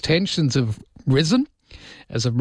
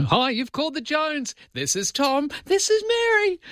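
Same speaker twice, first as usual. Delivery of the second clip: higher, cheery family greeting voice; chirpy recorded message, pitched up high; old answering machine greeting. Retold or imitated. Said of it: "phone answering machine".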